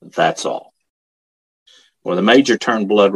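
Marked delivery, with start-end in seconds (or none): 0.0-0.7 retold stern sergeant, deliberate and final. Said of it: "said very sternly".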